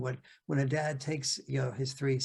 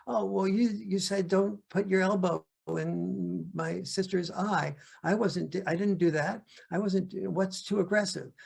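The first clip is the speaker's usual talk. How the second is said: put-on protesting kid; 5 semitones higher than usual. Kids protest to dad that they did nothing wrong, high and whiny. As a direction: whine it like a kid caught out. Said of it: "the kids say".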